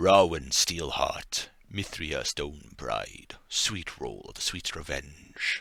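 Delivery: deep, dropped character voice. Narrator voicing strangers introducing themselves to the players: deep voice. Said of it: "in this deep, these deep voices".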